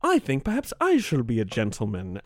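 mock an effete rich gentleman; effete American billionaire. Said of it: "an effete American billionaire who's like".

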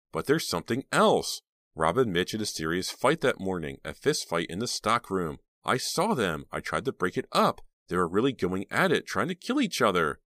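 a hint of an eager teen girl; teenage girl voice. Reva voiced in the story.

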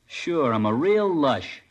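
slow, drawn-out sarcasm; sarcastic. Acted. Teen mocking the cop's question, slow sarcasm. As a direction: toss it back with slow contempt.

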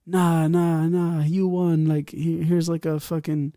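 imitated DJ in a high-pitched voice; club DJ. DJ awarding the runner-up free drinks, high mock DJ voice. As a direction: pitch it up as the DJ overruling the result. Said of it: "the D J was like".

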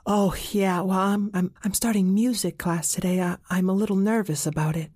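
put-on a girl admitting her first-day nerves; nervous Zizi. Zizi tells the rhino she is nervous about music class, stammering.

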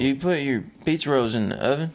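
drawn-out country accent. Shown as a demonstration. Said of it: "you slowed it down".

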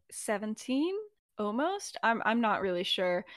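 unsure, questioning lift on the guess; hesitant. Retold or imitated. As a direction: answer softly and haltingly, not quite sure. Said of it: "Regulus hesitates for a moment".

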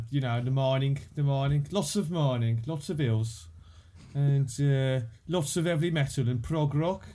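broad, nasal Black Country accent. Shown as a demonstration. Listing the region's prides to Americans, broad Black Country accent. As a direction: lay on the Brummy nasal vowels. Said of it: "which is where we talk like that".

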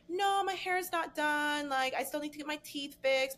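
retold protest. Retelling own excuses to strategist.

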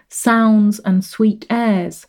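slow, with "sounds" hit hard at the start; opening stress. Shown as a demonstration. Lecturer showing students the stressed opening on "sounds". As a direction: lean into "sounds" then ease off. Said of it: "starting lines with an emphasis".

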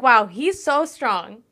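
slow, dreamy awe; swooning. Retold or imitated. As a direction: sigh it out, starstruck. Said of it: "I'm like".

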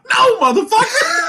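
high, loud laughing no; laughing refusal. Retold or imitated. Refusing the DM's invite at Walmart, laughing loud shout. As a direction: yell it through a laugh. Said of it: "And I was like".

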